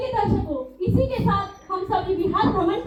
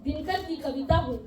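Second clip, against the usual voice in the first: poem recitation; 2 semitones lower than usual. Acted.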